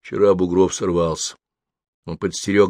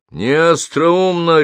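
higher, louder and slow, a bark; 9 semitones higher, 5 dB louder, much slower than usual. A narrator's reading. Zelenin barks back at Yegorov's helicopter idea, angry. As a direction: snap it back at the bad joke. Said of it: "рявкнул Зеленин".

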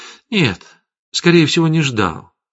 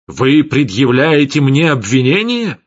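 accusing, louder and higher; a stern raised voice putting the question; raising his voice; 4 semitones higher, 5 dB louder than usual. A narrator's reading. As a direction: demand it, voice rising. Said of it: "повышая голос".

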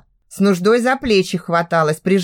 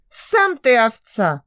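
hissed through teeth; 3 semitones higher, slower than usual. Acted. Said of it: "Сквозь зубы процедила".

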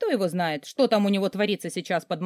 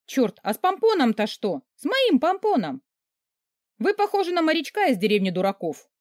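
насмешливо; 7 semitones higher, 3 dB louder than usual. Acted. Героиня насмешничает над шапкой.

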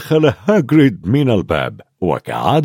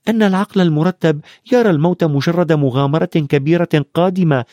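put-on lightly raised young boy voices; boys' voices; 6 semitones higher than usual. Ron and Harry talking in the hospital wing, lightly voiced boys. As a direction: voice the boys a little higher.

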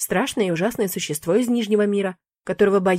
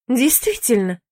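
indignant; 4 semitones higher, 3 dB louder, slower than usual. Acted. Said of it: "возмутилась я".

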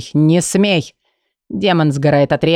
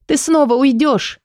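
higher woman's voice, earnest and eager; Leila, eager; 10 semitones higher than usual. Acted. Лейла отвечает Каю с готовностью, высоким женским голосом. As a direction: she answers him with quick resolve.

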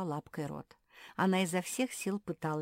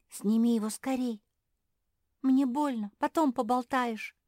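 louder, higher angry cry of pain; 8 semitones higher, 9 dB louder than usual. Acted. Trapped frog angrily orders Kuki to lift the stone. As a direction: snap at them to hurry, it hurts. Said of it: "рассердилась Квакушка".

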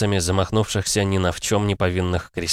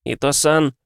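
whimpering plea; 8 semitones higher than usual. A narrator's reading. Frightened spirit whines at its master, plaintive whimper. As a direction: whimper his name, begging. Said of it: "жалобно проскулил тот".

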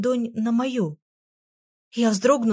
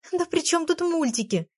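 near tears; 9 semitones higher than usual. A narrator's reading. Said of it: "чуть не плача отмахнулась я".

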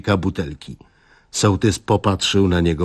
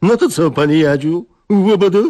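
higher, louder cheerful cry; eager toast; 8 semitones higher, 4 dB louder than usual. Acted. Young guest eagerly offering a toast to the wife. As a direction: raise a glass with gusto.

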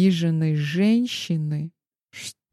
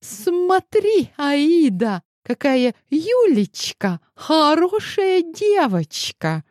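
mocking sarcasm; 11 semitones higher, slower than usual. A narrator's reading. Jealous fiancée mocking rival.

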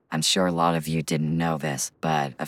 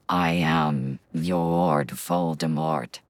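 Voldemort voice; much slower than usual. Shown as a demonstration. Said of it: "Lowest voice".

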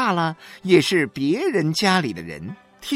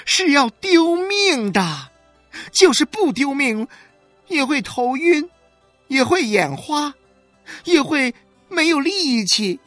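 high, loud and ringing, building to a wail; loud public proclaiming; 5 dB louder than usual. A narrator's reading. 许玉兰 to the neighbours at 何小勇's door, loud and high. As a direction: proclaim it to the whole street, voice thrown high. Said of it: "然后她亮起自己的嗓子，对周围的人诉说了起来".

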